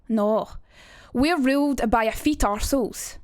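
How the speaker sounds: bitter monologue in broad Edinburgh Scots; Edinburgh accent. Acted. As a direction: deliver the rant in a pronounced Edinburgh accent. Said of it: "trying to think of the Edinburgh accent".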